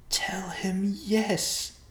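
slow, urgent stage whisper; breath-only, drawn-out hushed advice. A narrator's reading. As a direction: whisper it as a prompt to your partner. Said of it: "the short man whispered".

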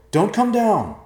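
loud, high warning shout; high-pitched holler from below; yelling. Acted. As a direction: yell urgently to stop them. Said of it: "Evercloud yelled".

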